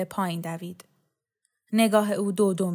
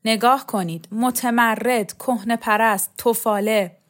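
mildly raised, contemptuous accusation; scornful denouncing; 4 dB louder than usual. Acted. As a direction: spit out each insult separately. Hurls insults while pointing him out. (تحقیرآمیز و پرخاشگرانه)

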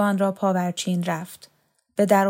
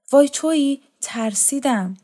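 startled cry, pitched high and loud, then settling; frightened; 6 semitones higher, 4 dB louder than usual. A narrator's reading. Aunt startled at the window by her nephew, frightened cry. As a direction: jump out of your skin, then catch your breath. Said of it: "دختر میانسال وحشت زده سر گرداند".

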